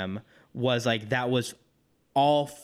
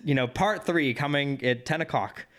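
announcer voice; 4 semitones higher than usual. Retold or imitated. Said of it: "a really bad Walter Cronkite impersonation".

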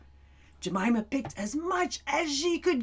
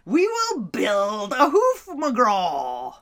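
put-on girl's voice; 4 dB louder, slower than usual. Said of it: "she said".

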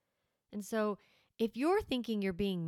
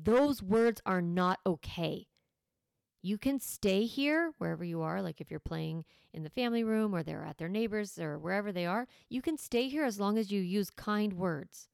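very strong voice. Shown as a demonstration. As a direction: lead like a calm captain. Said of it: "I'm using a very strong voice".

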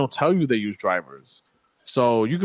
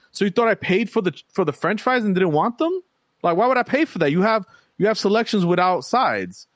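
retold exasperated argument; 7 semitones higher than usual. Arguing with the delivery guy over missing fries, incredulous and high. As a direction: argue it like it's obvious, pitched way up. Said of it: "I'm like".

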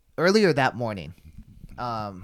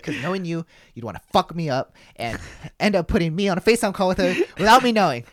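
retold exasperation; 7 semitones higher, 9 dB louder than usual. Retells friend's worked-up accusation.

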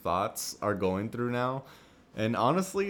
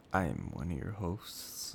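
lightly affected seductive host intro; put-on seductive voice; 4 dB quieter than usual. Shown as a demonstration. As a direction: introduce yourself in a changed, would-be seductive voice. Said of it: "why do you change your voice".

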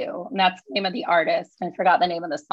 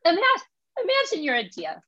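Lisa's My Cousin Vinny speech in thick Brooklyn; New York accent, pushed up and punchy; 4 semitones higher than usual. Acted. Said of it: "So it's New York accent".

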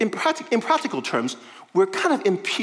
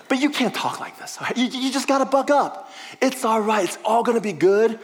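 light imitation of a pushy, upbeat friend, mostly higher; lightly voiced Peter, cheering him up; Peter rebuking; 3 semitones higher than usual. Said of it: "Peter's like".

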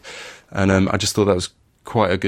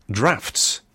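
northern accent; 3 semitones higher than usual. Real, not acted. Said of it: "I say that in a very northern way".

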